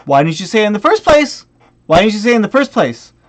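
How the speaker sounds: repeated, insistent complaint; irritated rhetorical question; exasperated demand. Retold or imitated. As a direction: demand an answer, fed up. Exasperated rant at the buyer.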